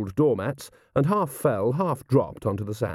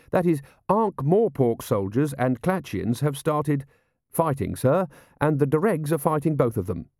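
higher-pitched, careful report to a superior; earnest officer reporting; 5 semitones higher than usual. Acted. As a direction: correct yourself, then report dutifully. Carrot reports fighting to Vimes.

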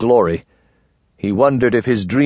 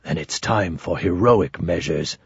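a lower, softer second man; second conspirator; 5 semitones lower, 5 dB quieter than usual. Acted. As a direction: speak it low and grim. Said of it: "A second voice".

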